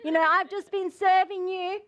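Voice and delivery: aggrieved list of good deeds; mildly indignant complaint to God; accusation. Acted. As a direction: protest as if unfairly treated. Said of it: "it's an accusation against the Lord".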